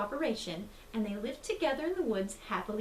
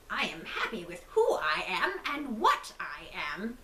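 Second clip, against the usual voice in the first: wolf voice. Acted. Wolf answers before leaping out.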